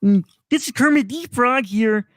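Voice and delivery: lightly voiced Kermit the Frog; a hint of Kermit greeting the show; light Kermit voice for the audience; Kermit impression. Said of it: "I'll do my Kermit impression".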